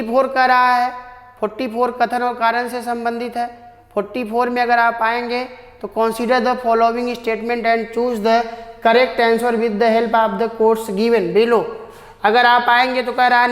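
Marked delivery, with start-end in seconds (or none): 6.0-11.6 slow, careful reading of the question; slow dictation reading. Shown as a demonstration. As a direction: read each word slowly so students can follow. Teacher reads question aloud slowly. (धीमे-धीमे प्रश्न पढ़ना)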